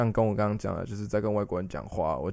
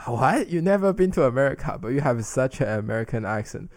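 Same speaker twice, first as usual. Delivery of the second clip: 1 surprised foreigner; 3 semitones higher than usual. Retold or imitated. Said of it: "他们就会说".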